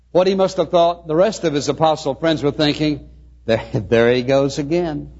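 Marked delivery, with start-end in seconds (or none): 3.4-5.1 amused mock remark. Imagined friends mocking Peter's failure.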